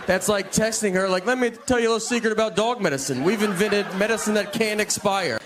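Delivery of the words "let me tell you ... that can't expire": higher, fast conspiratorial mock voice; whisper-in-your-ear salesman, hammed; mock secret-sharer. Imagined dog medicine maker texting the wife, mock conspiratorial.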